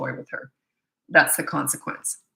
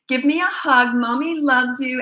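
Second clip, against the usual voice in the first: higher, slow sugary imitation of a mother; mock coaxing mom; 6 semitones higher, 4 dB louder than usual. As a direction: coo it slowly, mocking the indulgent mom. Mocking mom coaxing screaming child.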